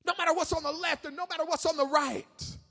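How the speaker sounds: impassioned preacher in full flow; fervent preaching. Real, not acted. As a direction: build the sermon in loud rhythmic waves.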